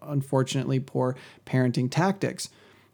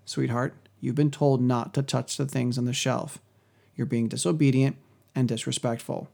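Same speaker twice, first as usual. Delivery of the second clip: gentle parental correction, slightly lowered; lovingly, lowered voice. Acted. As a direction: correct a small child tenderly but plainly. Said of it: "I'm gonna lower my voice, come right down".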